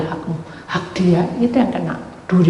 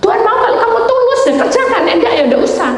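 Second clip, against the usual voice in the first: exasperated scolding; 5 dB louder, faster than usual. Retold or imitated. Exasperated lecture in retold argument.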